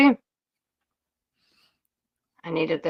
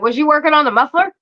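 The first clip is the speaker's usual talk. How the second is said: teasing uncle; 6 semitones higher than usual. Retold or imitated. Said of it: "He's like".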